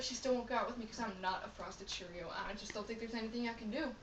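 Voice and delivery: a touch of hopelessness, voice dropped; mildly dejected. Acted. Depressed Cheerio confiding in his boss, softly dejected.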